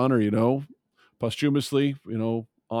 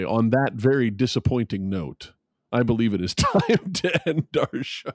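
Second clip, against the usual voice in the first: Grand Tour sign-off. Retold or imitated. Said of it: "as the guys on, on, uh, the Grand Tour would say".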